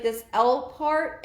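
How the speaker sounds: normal talking voice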